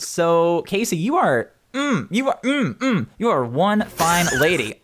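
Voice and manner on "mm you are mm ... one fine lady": flirty. Acted. GM admiring Casey.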